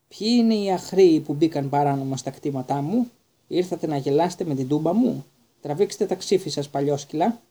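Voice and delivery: loud, blustering challenge from a tiny knight; knight shouting. Acted. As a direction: bellow it like an offended little knight. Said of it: "φώναξε βλέποντας το Χάρη".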